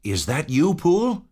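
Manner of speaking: high, cautious call through the door; wary servant voice. Acted. Servant behind the door checking who knocks, wary call. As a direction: ask nervously through the chain. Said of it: "a voice asked from within".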